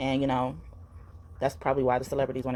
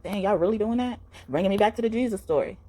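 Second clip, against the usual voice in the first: raised pitch, voicing God's exasperated disbelief; appalled God; 7 semitones higher than usual. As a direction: play God dismayed at people, not shocked. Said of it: "he's just so appalled".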